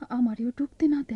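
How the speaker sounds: a touch of crying in the fear; tearful. Acted. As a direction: voice catching with worry. Sister fearful, crying. (কান্নাভেজা ভয়ে)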